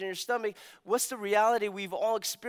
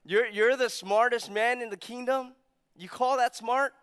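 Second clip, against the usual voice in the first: mock incredulous; 6 semitones higher, 5 dB louder than usual.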